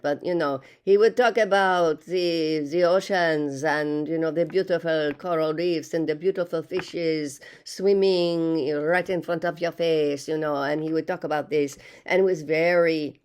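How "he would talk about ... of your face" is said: put-on a light, self-aware French accent while describing the ocean; hint of a French accent, not a good one; bad French accent. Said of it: "I'm not doing a good French accent".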